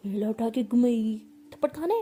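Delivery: loud mocking rant, rising to a yell; wife mocks her partner's weakness in loud anger; angry scolding. Loud mocking angry rant. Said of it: "ऐसे बहुत गुस्सा करी होती है".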